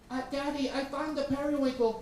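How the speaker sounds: high, lightly voiced small boy; toddler voice. Little brother telling Daddy his find, toddler voice. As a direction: sound like a two-year-old. Two-year-old brother speaks.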